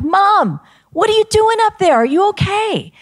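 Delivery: high, loud call up to the roof; calling up to mom. Retold or imitated. Young daughter calling up to mom on the roof, high and loud. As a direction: shout up to her, worried.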